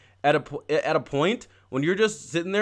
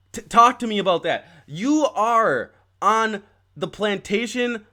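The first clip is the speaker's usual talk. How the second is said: heated rant; 4 semitones higher than usual. Real, not acted. Confronting Black Caucus leaders.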